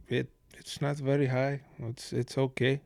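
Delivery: quiet, dry deadpan answer; a hint of an unimpressed player shrugging. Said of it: "A very dry sense of humor".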